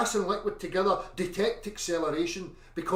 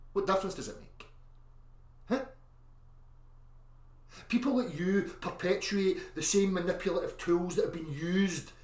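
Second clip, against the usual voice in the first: ordinary talk, nothing marked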